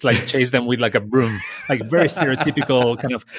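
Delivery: chuckling through the words; laughing. Real, not acted. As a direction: laugh lightly while telling it. Laughing while telling grandma story.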